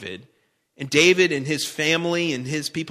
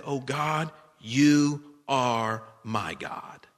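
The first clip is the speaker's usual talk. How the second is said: slow earnest prayer; 2 semitones lower, much slower than usual. Acted. Repeating David's prayer, slowed.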